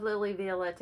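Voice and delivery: "Violette" said in a French-style pronunciation. Real, not acted. Stitcher naming a favorite designer, "Violette" pronounced the French way. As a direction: give "Violette" a French-sounding ending. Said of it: "giving it a French pronunciation".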